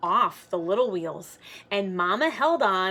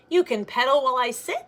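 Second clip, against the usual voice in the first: friend's offer; 4 semitones higher, 5 dB louder, much faster than usual. Acted. Murray offers ride.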